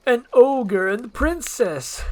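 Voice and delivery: high, loud, slow outraged gasp; a pompous little lord, scandalised; high slow shriek of disgust; shocked Farquaad. Acted. Narrator voicing shocked Farquaad.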